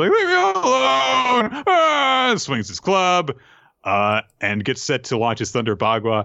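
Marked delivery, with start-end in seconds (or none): 0.1-2.3 put-on drunken crying shout, very high, loud, slow wailing. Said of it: "he just starts crying".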